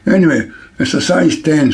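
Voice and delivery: talking around a needle held in the mouth. Real, not acted. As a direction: speak with a pin between your lips. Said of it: "Sorry the way I'm speaking".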